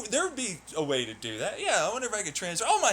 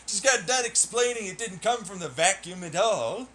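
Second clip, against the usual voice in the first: laughing disbelief. Real, not acted.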